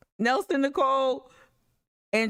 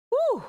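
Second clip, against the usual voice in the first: whoop; 14 semitones higher than usual. Real, not acted. Reacting after long laugh.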